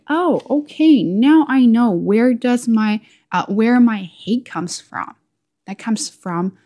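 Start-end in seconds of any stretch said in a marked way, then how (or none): 0.1-5.2 high, louder "oh, okay", then slowing down; sudden realisation. Retold or imitated. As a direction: act out a discovery, raised and drawn out. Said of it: "that's how I discovered".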